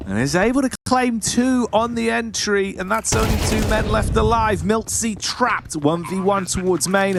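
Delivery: live esports casting; play-by-play commentary. Acted. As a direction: call the round as it unfolds.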